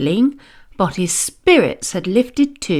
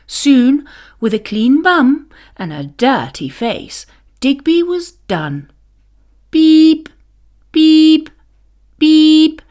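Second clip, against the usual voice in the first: reversing beeps; 5 semitones higher, 4 dB louder than usual. A narrator's reading. Reversing digger beeping.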